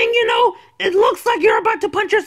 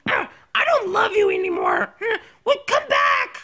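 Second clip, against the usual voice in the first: tearful break-up; 2 semitones higher than usual. Acted. Lovers break up in skit.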